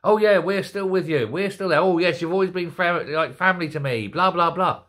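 mock-energetic phone voice, running on briskly; Joe Biden. Host mimicking the suspect phone call, vital and with it. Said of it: "a man who was full of energy".

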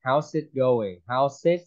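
"how's it going" with how's squeezed into one syllable; contracted pronunciation. Shown as a demonstration. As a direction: say "how's" short, ending in an S sound. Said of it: "một là em đọc là S thì".

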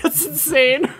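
giddy, overwhelmed chuckle into speech; real laughing amazement; laughing disbelief. Real, not acted. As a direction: laugh as the words come out. Still overwhelmed by the donation.

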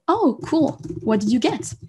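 bright high "Oh, cool" then easy question; breezy friendly American asking "what did you get"; cheerful American reply. Retold or imitated. Teacher voicing an American friend, casually upbeat. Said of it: "il va vous dire".

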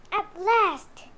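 bright loud At last; relieved joy at last; mother duck's glad cry; 1 happy relief. A narrator's reading. Duck's eggs finally hatch.

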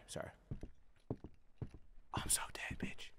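hushed breathy whisper. Real, not acted. Gamer hiding from Grandma, whispering. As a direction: whisper so the enemy won't hear.

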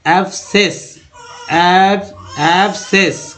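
एब्सेस broken as "ab-ses", no k sound; silent C. Shown as a demonstration. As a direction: model एब्सेस carefully with a plain s. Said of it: "आप यहाँ पढ़ेंगे".

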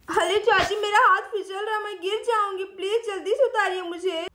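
put-on lightly lisped child voice; pleading little girl. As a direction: beg like a small child in trouble. Sweety slipping, pleads. (तुतलाती बच्ची की मिन्नत)

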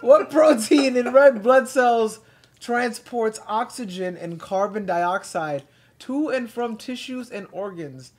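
slow, careful quiz question reading; quiz host reading. Acted. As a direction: read each option out slowly. Reads quiz questions aloud.

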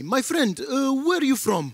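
taxi driver. Retold or imitated. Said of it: "like a taxi driver once asked me".

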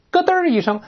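high-pitched door-latch click; imitated door click. Shown as a demonstration. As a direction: mimic a door clicking shut. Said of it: "就是声明不是这个用大风咣一声". (尖一点模拟关门咯噔声)

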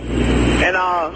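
real tearful voice breaking into a sob; crying a little. Real, not acted. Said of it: "I'm just crying a little bit".

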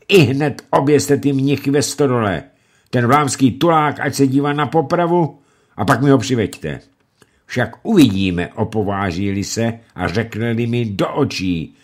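angry lord giving orders; angry ranting. Acted. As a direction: order the hanging in a rage. Lumey ranting at servants.

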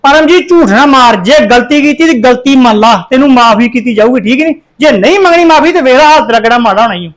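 loud, stern telling-off; loud scolding. Acted. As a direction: lay down the law to the accused girl. Elder scolds accused thief.

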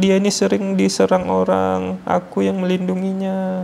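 the clinging jinn begs not to leave; high, slowish spirit voice, worried; possessing jinn speaking. Retold or imitated. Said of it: "dia bilang gini".

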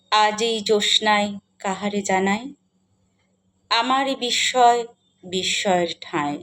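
measured poetic reading with long pauses between lines; lyrical, deliberate verse delivery; poem recitation. Acted.

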